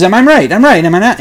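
hammed-up Russian psychic seeing a vision; mock psychic, excited. Psychic proud of his hit.

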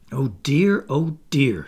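repeated sighing lament; exasperated sigh. A narrator's reading. Wendy interrupted by the children, sighing. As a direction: sigh each phrase, mildly despairing. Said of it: "sighed Wendy".

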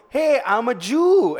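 loud, high, drawn-out call; mock taunting call. Acting out baiting a Nazi, mock taunting call. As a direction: call it out slowly and boldly. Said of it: "you go".

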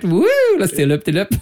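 giddy pilot. Pretend. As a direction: whoop like you're swooping a plane. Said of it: "I've been going left and right".

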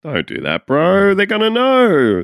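high, drawn-out incredulous warning; mock pleading bro. Friend warning Tantalus about the gods, high pleading. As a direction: plead with your foolish buddy.

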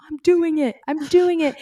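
high, loud cries of triumph; retold elated scream. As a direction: shout it like you just won. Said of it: "you just kept screaming".

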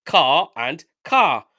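"car" twice alike in an imitated English accent; imitated English pronunciation of "car". Shown as a demonstration. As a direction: put on an English "car", both words identical. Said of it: "English accents would say car".

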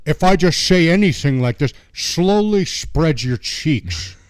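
put-on slow, drawn-out Scottish accent; slow Sean Connery style Scottish accent; Connery impression. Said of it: "John does a better Connery".

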